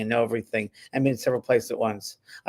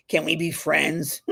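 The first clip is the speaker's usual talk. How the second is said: tearful laugh; 3 semitones higher, slower than usual. Retold or imitated. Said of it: "and I was gonna cry".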